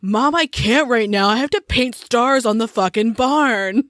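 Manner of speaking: lightly voiced 1900s farm boy; a hint of sulky teen complaining to mom; mock put-upon emo boy; moody emo teenager. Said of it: "my moody nineteen hundreds teenager emo boy voice".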